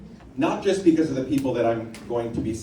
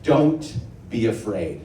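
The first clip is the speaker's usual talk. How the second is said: quote read slowly. Shown as a demonstration. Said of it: "he has a quote that says".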